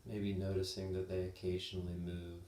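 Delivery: calm, unhurried body-scan guidance with long pauses; measured meditation teacher voice, lingering pauses; guided meditation. Real, not acted. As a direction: guide them gently, leaving space between phrases.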